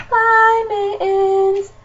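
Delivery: high, loud singsong goodbye; sing-song pet voice. Real, not acted. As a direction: coo it to the pet. Saying goodbye to her pet.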